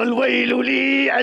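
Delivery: slow wail, falling at the end; slow lament. Acted. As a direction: moan it slowly, dropping off. Lamenting his hasty sale. (نواح بطيء بنبرة هابطة)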